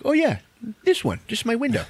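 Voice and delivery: high-pitched imitation of an eager kid; childlike eagerness. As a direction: pipe up like a proud little boy. Retold childlike Hedwig shows his window.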